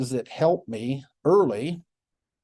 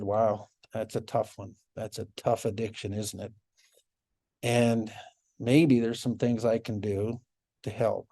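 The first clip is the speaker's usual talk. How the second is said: soft sympathetic; 3 semitones lower, 4 dB quieter than usual. Retold or imitated. Empathizing about meth relapse.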